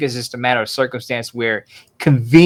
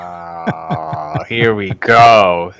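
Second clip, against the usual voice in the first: laughing through the words; 7 dB louder, much slower than usual. Real, not acted. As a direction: chuckle while you say it. Laughing at the topic turn.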